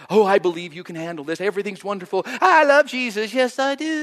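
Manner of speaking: sarcastic imitation of a pretentious churchgoer; fake pious. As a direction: ham up a phony happy believer. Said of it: "because it's so fraudulent".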